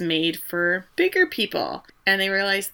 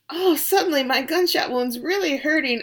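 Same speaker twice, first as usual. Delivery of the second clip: mock excuse; 8 semitones higher than usual.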